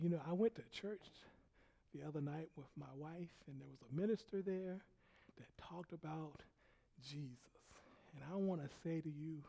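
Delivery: soft, low, halting apology; subdued, hesitant confession; humble apology. Retold or imitated. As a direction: quietly ask forgiveness with careful pauses. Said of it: "He called me to his office".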